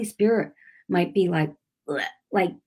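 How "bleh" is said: imitated disgust. Voicing the Spirit's distaste.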